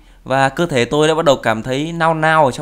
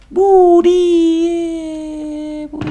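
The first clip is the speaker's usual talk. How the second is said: squeaky mock voice; 14 semitones higher, much slower than usual. Mock voice reading item name.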